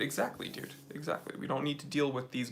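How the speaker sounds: hushed mock-secret agreement; conspiratorial whisper. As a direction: lean in like you share a secret. Agreeing with a feds conspiracy joke.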